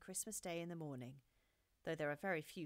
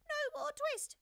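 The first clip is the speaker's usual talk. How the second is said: very high, louder squeaky shout; a second, shriller defiant cry; twittering mouse shout, again higher; 8 dB louder, slower than usual. A narrator's reading. Mice shouting at Simpkin, higher and louder. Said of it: "shout at once in little twittering voices".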